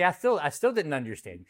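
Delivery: usual speaking voice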